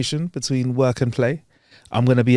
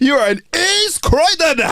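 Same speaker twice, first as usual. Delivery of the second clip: laughing; 4 dB louder, much slower than usual. Real, not acted. Joking, laughing.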